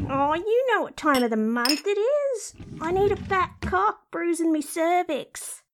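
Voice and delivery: crude, randy inner voice; brazen talking-vagina character. Acted. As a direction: play the shameless bawdy sidekick. Crude talking body part.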